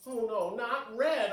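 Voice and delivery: loud, high dismayed cry; screaming. Acted. Girl screaming at her red reflection. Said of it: "I screamed".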